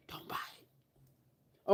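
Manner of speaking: slow, drawn-out whisper; emphatic hushed warning. Pretend. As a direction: whisper the warning slowly and very softly. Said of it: "Can you hear me whispering?".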